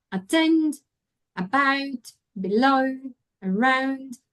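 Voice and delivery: "attend", "about", "below", "around", each stressed on its last syllable; stress at the end. Shown as a demonstration. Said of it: "those have the stress at the end".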